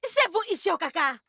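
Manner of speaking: excited recognition. Acted. Daughter finally recognising her father, excited exclamation. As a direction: announce his name with delight.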